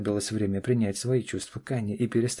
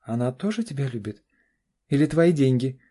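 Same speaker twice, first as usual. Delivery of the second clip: higher, louder sneering daughter; daughter's sneer; 5 semitones higher, 6 dB louder than usual. A narrator's reading. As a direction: needle him about the money. Daughter voiced, sneering question. (насмешливый голос дочери)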